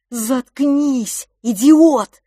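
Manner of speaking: high loud angry order; angry hush. Acted. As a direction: shut him up harshly. Twin silences his brother.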